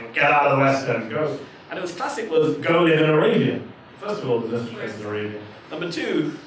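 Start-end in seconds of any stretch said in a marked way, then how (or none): 0.0-3.6 mocking abusers. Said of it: "People saying".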